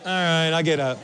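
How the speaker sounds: mild, low-key acceptance; imitated calm child. Shown as a demonstration. Fallen kid copying parent's calm, casual acceptance. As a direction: shrug it off casually. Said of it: "They'll be like".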